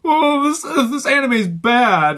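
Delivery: high, loud, slow whiny mock voice; mocking imitation. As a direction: parody a lazy reviewer.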